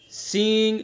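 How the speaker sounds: سینگ with the ng held in the nose; nasal demo. Shown as a demonstration. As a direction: ring the ng of سینگ. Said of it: "سینگ کو ادا کرتے وقت".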